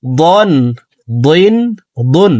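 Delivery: দন, দিন, দুন with a thick, heavy emphatic d; drawn-out demo of দন, দিন, দুন with a thickened d; heavy Dad. Shown as a demonstration. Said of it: "মোটা করে উচ্চারণ করব".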